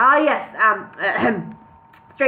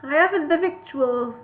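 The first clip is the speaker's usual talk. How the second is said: higher, fretful hobbit voice; a touch of desperate pleading, pitched up; mild desperation; 5 semitones higher than usual. A narrator's reading. Bingo pleading lack of food, mildly desperate. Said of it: "Bingo began in desperation".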